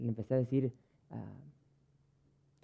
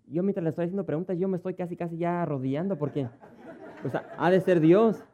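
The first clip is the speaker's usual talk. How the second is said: half-laughing, louder, building to a laugh; laughing while telling; 4 semitones higher, 8 dB louder than usual. Real, not acted. Pastor laughing to the congregation at the woman's claims, louder. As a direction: laugh at how holy she sounds.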